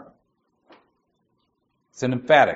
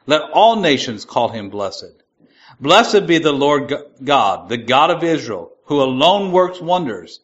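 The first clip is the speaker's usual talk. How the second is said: measured, slightly raised reading of the psalm; scripture reading; 3 dB louder than usual. Acted. Preacher reading Psalm seventy-two to the class, solemn and measured.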